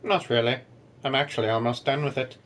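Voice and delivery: lightly voiced snob, bored tone; snobby boy voice. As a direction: sound a little superior. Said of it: "that's your snobby boy voice".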